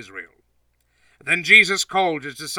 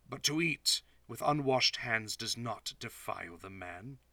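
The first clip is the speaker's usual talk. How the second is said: quieter, patient teaching voice; softly explaining; 6 dB quieter than usual. Acted. Jesus quietly explains the saying to Peter.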